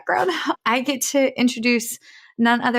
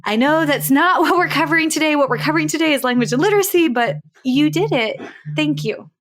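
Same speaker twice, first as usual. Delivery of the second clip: high, loud, fast rush of praise; excited gushing; 6 semitones higher, 5 dB louder than usual. Real, not acted. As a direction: gush over her, barely containing it.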